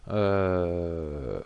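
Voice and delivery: speaking while holding his breath; words squeezed out on a held breath. Real, not acted. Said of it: "je retiens ma respiration".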